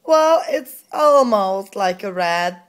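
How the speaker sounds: slow words through a laugh. Real, not acted. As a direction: chuckle while you say it. Laughing at toddler's answer.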